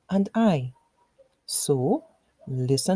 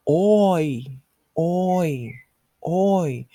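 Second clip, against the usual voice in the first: calling out; 4 dB louder, much slower than usual. Shown as a demonstration. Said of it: "what is the sound made by father calling out".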